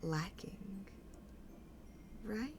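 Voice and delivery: theatrical lilt with hushed pauses; insinuating boss. Acted. Mauve turns to the group, insinuating with deliberate pauses. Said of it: "kind of goes".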